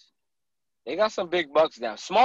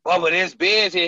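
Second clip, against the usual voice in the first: alarmed call; 5 semitones higher, 7 dB louder than usual. Retold or imitated. Retelling bear scare in stand.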